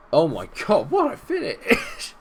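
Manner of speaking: high, loud, slow ecstatic cry; ecstatic yell. Real, not acted. Fan celebrating the stunning strike to his stream, ecstatic. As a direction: scream it up in pure joy.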